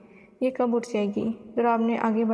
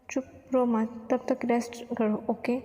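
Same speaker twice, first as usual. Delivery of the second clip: slow, soft hush to calm her; tender soothing; 3 dB quieter, slower than usual. Acted. Darab comforts crying Naznin, slow soft soothing. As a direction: gently hush her tears, very slowly.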